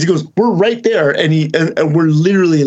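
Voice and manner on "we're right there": mock Bobby. Bobby answering in his voice.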